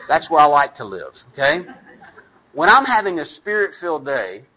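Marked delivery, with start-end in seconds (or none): none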